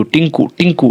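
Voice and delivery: "टिंकू" said short, ending quickly; short, quick vowel. Shown as a demonstration. Teacher showing learners how "टिंकू" finishes quickly, short vowel. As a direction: say "टिंकू" with a brief, unstretched first vowel. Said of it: "तो जल्दी समाप्त हो रहा है".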